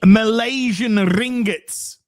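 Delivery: high, slow, drawn-out donor announcement; stretched-out excited proclamation; hammed-up announcement. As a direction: announce it like a big prize. Hams up announcing a big donation.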